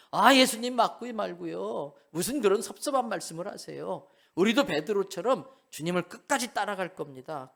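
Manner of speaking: boastful loud vow. Retold or imitated. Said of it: "큰 소리 빵빵 쳤어요".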